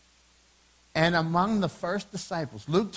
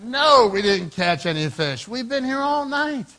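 loud, drawn-out shouted reply; shouting back; 6 semitones higher, 8 dB louder than usual. Acted. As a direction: holler it back across the water. Fishermen yell back to shore.

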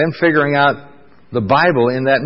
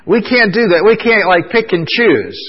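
emphatic preaching; 8 semitones higher, 3 dB louder than usual. Real, not acted. Preacher insisting to congregation.

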